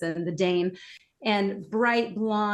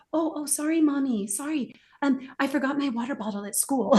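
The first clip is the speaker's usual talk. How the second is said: put-on higher, careful little girl switching to proper English; a lightly voiced daughter apologizing; daughter's apologetic correction; 4 semitones higher than usual. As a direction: sound sorry and correct yourself. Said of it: "And she goes".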